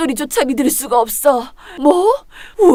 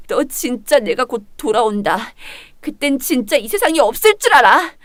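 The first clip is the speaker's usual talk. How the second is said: tearful threat. Acted. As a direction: sob out a promise of revenge. Thrown out, vows revenge.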